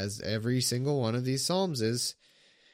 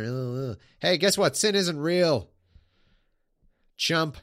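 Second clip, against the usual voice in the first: louder, higher mock-exasperated deity; exasperated God; 7 semitones higher, 7 dB louder, slower than usual. Streamer playing God scoffing at the psalmist, mock exasperated. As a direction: scoff at him like a fed-up god. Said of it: "That's what I'd say if I were God".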